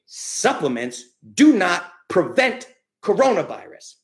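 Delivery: slow, deliberate words for listeners to repeat; slow emphatic statement. Shown as a demonstration. Host to podcast listeners, slow emphatic line to repeat. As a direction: spell it out slowly so they repeat it. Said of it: "Repeat after me".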